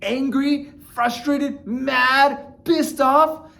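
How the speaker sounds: rising list. Shown as a demonstration. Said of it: "if I come at my wife".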